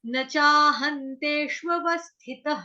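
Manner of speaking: "न चाहन्तेष्वस्थितः" with a short न, not ना. Shown as a demonstration. Teacher modelling the short न for the student. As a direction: chant "न" short before चाहन्तेष्वस्थितः. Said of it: "इसको न ही पढ़ेंगे".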